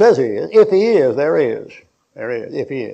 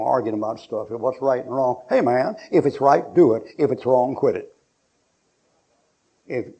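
usual speaking voice

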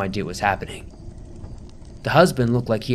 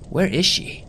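higher, anxious inner question; worried; 7 semitones higher than usual. A narrator's reading. Searching the empty road, higher anxious worry. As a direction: ask it in rising alarm. Narrator searching for missing girl.

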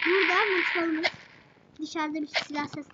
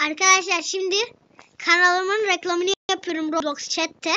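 eager loud; 7 dB louder than usual. Real, not acted. Loud, eager channel promotion.

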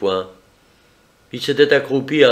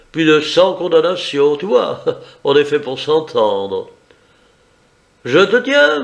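a hint of a cocky gentleman thief, raised pitch; smug and in control, lifted voice; lightly voiced Raoul, higher; 4 semitones higher than usual. Raoul taunting the cornered bandit Jodo, lightly voiced higher.

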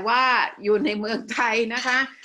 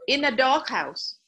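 slow model reading; 3 semitones higher, much slower than usual. Shown as a demonstration. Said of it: "Okay, together".

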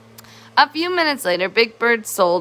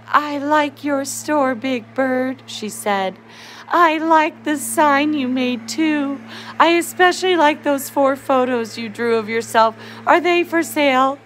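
granny voice; 5 semitones higher than usual. Acted. Granny Bird voiced in story.

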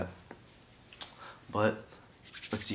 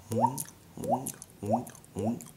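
throaty hoink from the throat; wrong hoink; 3 semitones higher, 4 dB quieter, much slower than usual. Shown as a demonstration. Showing the mistake to avoid, throaty hoink. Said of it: "you don't wanna go".

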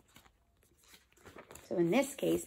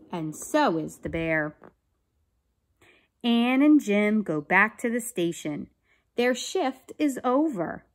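put-on clear, emphatic children's story narration; read-aloud story; 3 semitones higher, 6 dB louder than usual. A narrator's reading. Teacher reading a police story to children, animated narration. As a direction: read it out carefully for young listeners. Reads a picture book aloud.

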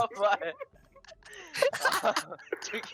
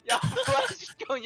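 panicking gamer; 12 semitones higher, 3 dB louder, slower than usual. Real, not acted. Begging revive, laughing.

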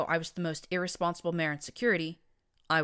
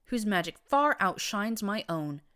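slow flattering; 6 semitones higher, 4 dB louder, slower than usual. Acted. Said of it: "grinning ear to ear".

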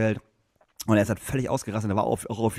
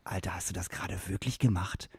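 much softer, lower, slowed disbelief; low, stunned, can't believe what just happened; mock quiet bouncer asking in disbelief; 6 semitones lower, 9 dB quieter than usual. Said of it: "der Seku guckt ihn an".

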